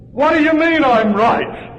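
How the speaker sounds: high, loud, slow disbelieving question; baffled Frenchman. Retold or imitated. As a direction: play the stunned owner who can't believe it. Frenchman baffled, asks back.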